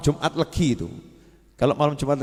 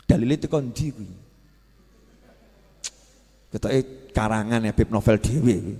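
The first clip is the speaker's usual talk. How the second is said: skeptical viewer; 7 semitones lower, 5 dB quieter than usual. Retold or imitated. Imitating skeptical YouTube viewer.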